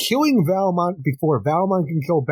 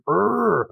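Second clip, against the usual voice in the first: imitated grunt; 6 semitones higher than usual. Imitates a character's noise in the retelling.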